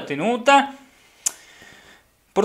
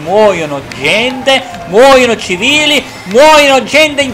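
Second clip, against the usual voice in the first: slow, rising hammed-up outcry; mock tragic lament; 4 semitones higher, 3 dB louder, slower than usual. Gamer joking that the race kills innocents, mock lament. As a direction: wail it like a war report.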